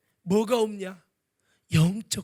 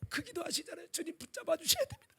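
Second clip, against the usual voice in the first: soft pleading prayer; 13 semitones higher, 8 dB quieter than usual. Retold or imitated. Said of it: "가면서 막 계속".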